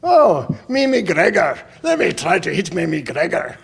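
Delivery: a hint of a doting golfer talking to his club; dad's golf voice. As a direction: croon to the old club like a favourite pet. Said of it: "he'd go".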